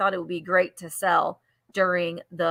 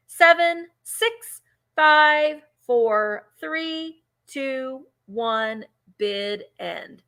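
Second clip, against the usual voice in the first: auction countdown; 3 semitones higher, much slower than usual. Real, not acted. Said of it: "start counting it down".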